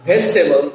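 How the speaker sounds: vegetable as ves-tebol in the sentence; contracted pronunciation. Shown as a demonstration. Teacher using the word in a sentence, vegetable as ves-tebol. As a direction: drop the middle vowel of vegetable. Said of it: "make a sentence from".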